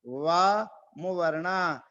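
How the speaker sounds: "वा मुवर्णः" slow, each syllable clear; careful pronunciation. Shown as a demonstration. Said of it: "इसका उच्चारण ध्यान से करना है". ("वा मुवर्णः" साफ़ उच्चारण)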